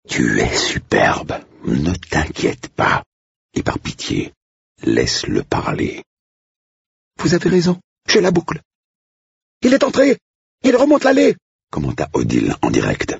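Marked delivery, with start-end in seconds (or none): 0.1-6.0 slow, hushed whisper of comfort; calm her down in a whisper; hushed and slow, half-whispered. Acted. Blake whispers again. 7.2-8.6 put-on high, eager young woman's voice; a nervous young bride-to-be, pitched up; flustered young woman. Manon flustered. 9.6-11.4 very high, excited squeal of a voice; piercing high voice, breathless with excitement; shrill excited cook. Acted. Odile live commentary.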